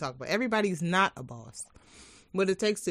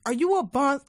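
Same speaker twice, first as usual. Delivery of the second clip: loud, high, rising; hyped echo; 8 semitones higher, 7 dB louder than usual. Acted. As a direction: throw the question up, hyped. Echoes louder, higher.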